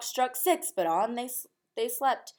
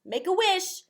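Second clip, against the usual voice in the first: put-on children's cry; 8 semitones higher than usual. A narrator's reading. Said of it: "the children cried".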